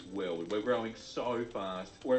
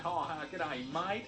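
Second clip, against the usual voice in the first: mock Australian; 4 semitones higher, slower than usual. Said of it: "I'm not like".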